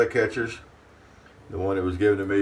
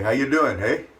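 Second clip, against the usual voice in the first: mock Canadian accent; 4 semitones higher, 4 dB louder than usual. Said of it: "I can't really do a Canadian accent".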